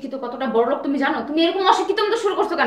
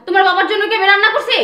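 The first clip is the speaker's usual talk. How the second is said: loud, higher scornful rant; angry rant; 4 semitones higher, 5 dB louder than usual. Acted. Wife ranting to her husband about his father's dirty clothes, loud and scornful. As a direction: hurl the insults at him.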